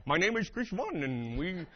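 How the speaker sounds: mimicked South Asian accent. Friend mimicking travel agents after the call, South Asian accent. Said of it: "I started doing it back to them".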